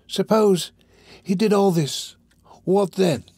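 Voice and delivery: high-pitched, insistent questioning with pauses; enraged challenge. A narrator's reading. Fagin challenging the robber, enraged. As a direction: press him hard, agitated. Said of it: "his eyes flashing with rage".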